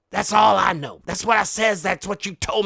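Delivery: a frustrated, loud outburst at his daughter; shouted in exasperation. Acted. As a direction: bellow it out in exasperation. Shout heard.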